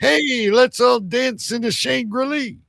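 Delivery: high-pitched, playful mock greeting; mock hearty greeting. Host improvising his own fake rhyming slang, mock hearty. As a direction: call it out gamely, pitch lifted.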